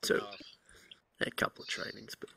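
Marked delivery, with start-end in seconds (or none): 1.2-2.3 whispering. Real, not acted. Whispered aside.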